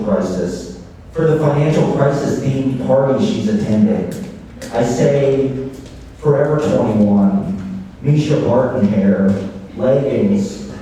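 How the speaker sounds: measured live poetry reading; poem reading. Acted. Poet reading a short piece to an audience, measured recital. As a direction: read the piece out in deliberate, separated phrases. Reads own piece aloud.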